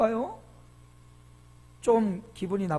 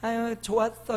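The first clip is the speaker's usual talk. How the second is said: underwhelmed greeting; 3 semitones higher, 3 dB quieter than usual. Shown as a demonstration. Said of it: "이러지 말고요".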